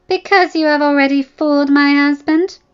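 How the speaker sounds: loud, high, accusing; wife accusing the other woman, loud and bitter; bitter accusation. Acted. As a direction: hurl it at her.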